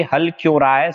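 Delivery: mock scolding. Shown as a demonstration. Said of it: "इसकी trick मैंने बताई थी".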